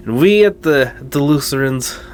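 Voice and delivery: imitating the pastor's thick African accent, badly; African accent attempt. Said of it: "I can't do the accent".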